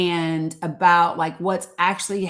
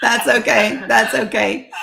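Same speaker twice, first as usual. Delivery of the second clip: laughing; 5 semitones higher, 6 dB louder than usual. Real, not acted. Laughing reassurance to guest.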